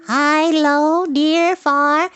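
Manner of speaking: very high, tiny creature voice; little spider. A narrator's reading. Baby spider explaining its departure to Wilbur, tiny high voice. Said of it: "one little spider".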